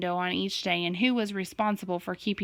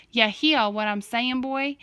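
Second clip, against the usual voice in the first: put-on hillbilly accent; 3 semitones higher, 3 dB louder, slower than usual. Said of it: "Dad did an imitation of a hillbilly accent".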